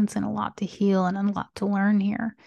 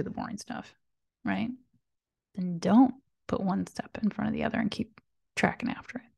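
whispering; 6 dB quieter than usual. Real, not acted.

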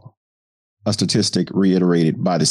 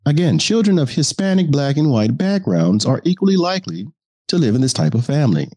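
reporter voice; 6 semitones higher than usual. Acted. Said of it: "the reporter voice allows me".

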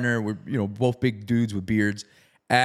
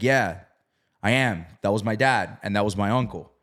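mildly reluctant admission, slightly low; 4 semitones lower than usual. Retold or imitated. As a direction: imitate someone grudgingly giving answers. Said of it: "you can tell he was reluctant".

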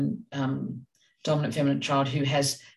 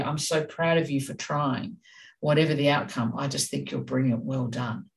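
gentle praise. Shown as a demonstration. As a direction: praise her gently so she feels safe and held. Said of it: "do you hear the tone of my voice".

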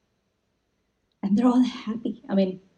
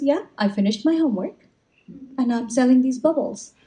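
put-on eight-year-old boy; 5 semitones higher than usual. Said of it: "this eight-year-old boy".

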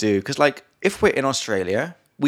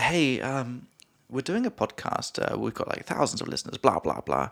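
pretend pickup pitch; 5 dB quieter than usual. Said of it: "I could be like".

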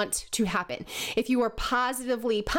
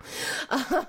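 short sheepish laugh; light laugh at herself; embarrassed giggle; 4 semitones higher than usual. Real, not acted. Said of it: "No, it's 'cause I'm hiccuping".

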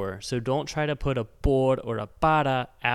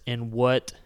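"In what can I help you?" drawn out word by word; slow word-for-word; 3 semitones lower, much slower than usual. Shown as a demonstration. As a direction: spell out the literal translation slowly. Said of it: "Literally word for word".

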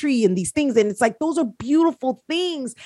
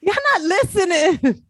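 high laughing, near tears; laugh-crying through it; 8 semitones higher than usual. Real, not acted. Still laughing.

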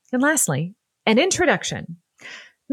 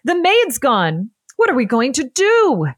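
frantic; 5 semitones higher, 5 dB louder than usual. Acted. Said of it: "frantic niece".

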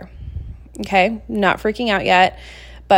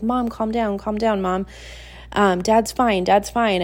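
sweet reassurance; 2 semitones higher, slower than usual. Retold or imitated. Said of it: "Kevin is so sweet".

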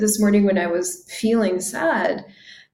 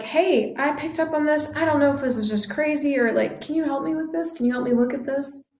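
vulnerable; 4 semitones higher than usual. Retold or imitated. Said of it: "I'm getting vulnerable with".

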